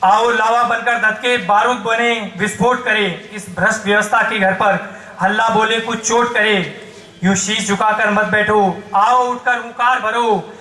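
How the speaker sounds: emphatic protest verse building to exhortation; poem recitation. Acted. Poet rouses the crowd against corrupt power, declaiming. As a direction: declaim it as a rallying call. Recites satire and call to rise.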